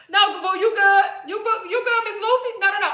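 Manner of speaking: loud, high-pitched quick protest; blunt, direct. Real, not acted. Host reassures a viewer offended by her tone, blunt and direct. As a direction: insist loudly that no offence is meant. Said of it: "I just talk like this".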